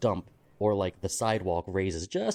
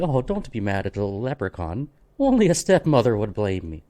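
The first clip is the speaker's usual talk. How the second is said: cheeky leprechaun; 4 dB louder than usual. Pretend. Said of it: "cheesing towards the camera and saying".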